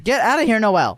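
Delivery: high-pitched shooing order; exasperated calling out. Real, not acted. Park owner orders Noelle out, high and exasperated.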